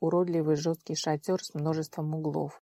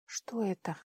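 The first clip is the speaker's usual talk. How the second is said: teeth chattering; 8 dB quieter than usual. Acted. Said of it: "стуча зубами, скрипуче произнесла она".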